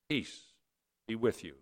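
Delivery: softly, almost under the breath; gentle quiet greeting. Acted. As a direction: hush the words as a blessing. Jesus greets the disciples.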